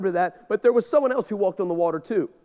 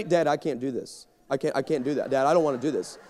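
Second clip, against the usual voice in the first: scared daughter; 7 semitones lower, 4 dB quieter, faster than usual. Retold or imitated. Daughter panicking before live TV.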